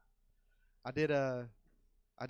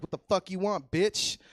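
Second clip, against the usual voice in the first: put-on loud, higher snarl of a rude kid; hostile inner child; 7 semitones higher, 13 dB louder than usual. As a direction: snap back like a bratty kid. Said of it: "he's like".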